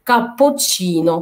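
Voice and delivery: "كابوتشينو" with a held double ch; doubled ch sound. Shown as a demonstration. Teacher showing how double c sounds, doubled ch. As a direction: pause on the closure before "تشينو" in "كابوتشينو". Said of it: "التشي التانية هتنطق تشي".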